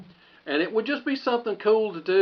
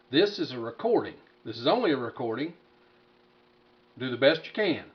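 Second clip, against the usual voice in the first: test recording; 4 semitones lower than usual. Shown as a demonstration. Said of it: "it's recording right now".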